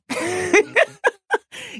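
a high burst of laughter; high squealing laugh. Real, not acted. Guest laughing at her own boast. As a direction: cackle up high, delighted.

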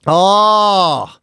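long, loud groan of dismay; exasperated groan. Real, not acted. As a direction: groan loudly, drawing it out. Groans at mention of clamping.

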